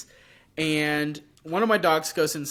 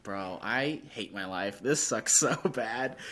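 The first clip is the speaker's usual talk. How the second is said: lower, softer groan breaking into a laugh; half-joking misery that cracks into laughter; mock despair; 4 semitones lower, 5 dB quieter than usual. Mock despair over skunk smell.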